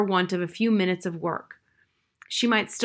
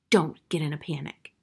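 whisper; 4 semitones lower than usual. Acted. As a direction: hush him without being heard. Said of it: "whispered Missus Frisbee".

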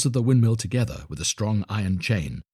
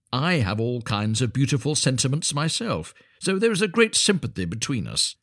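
lightly voiced know-all water rat, a little higher; opinionated water rat; 4 semitones higher than usual. Water rat lecturing the linnet on storytelling, lightly pompous. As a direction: hold forth as a self-important critic of stories.

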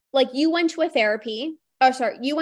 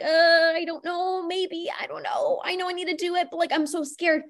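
trembling fear; 4 semitones higher than usual. Pretend. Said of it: "It's like a trembling".

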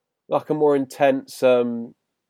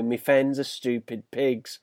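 put-on slow, soft London accent; imitating a crude London accent; 4 dB quieter, slower than usual. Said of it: "sort of horrible London accent there".

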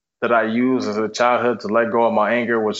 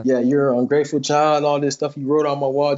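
mock scolding, slightly raised; retold chewing out; 3 semitones higher than usual. Foster father blames boy for the wall, mildly acted scolding. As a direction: imitate a father laying into a child. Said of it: "started chewing me out".

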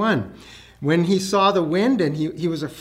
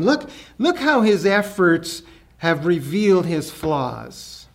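mocking disciples. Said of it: "pointed their fingers at Peter and found fault".

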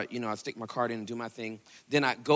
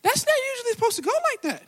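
complaining to God; 6 dB louder than usual. Retold or imitated. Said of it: "I was like".

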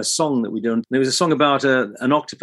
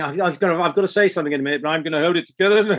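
retold struggle to keep a straight voice; holding back laughter; 4 semitones higher, much faster than usual. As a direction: force the words out, holding it together. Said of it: "And my voice was".

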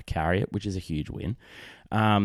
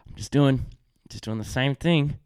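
higher, strained mock patience; through gritted teeth; 5 semitones higher than usual. Dad answering his toddler's repeated question, through gritted teeth. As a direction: answer the child with forced calm, teeth gritted. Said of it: "grit your teeth and go".

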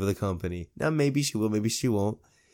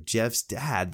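normal talking voice

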